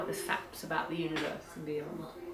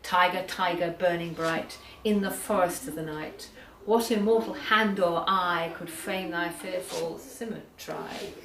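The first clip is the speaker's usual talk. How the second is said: poem recitation; 3 dB louder than usual. Acted. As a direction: intone the verse deliberately. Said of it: "has a lovely Cockney rhyme".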